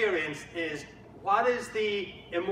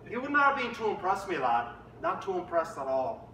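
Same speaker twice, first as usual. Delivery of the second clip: put-on Northern Irish accent. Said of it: "he speaks a little bit like this".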